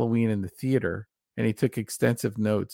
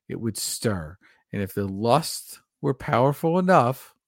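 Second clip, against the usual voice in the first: dramatic passage reading. Real, not acted. Reading a novelization passage to co-host, measured ominous narration.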